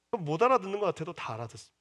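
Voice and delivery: normal talking voice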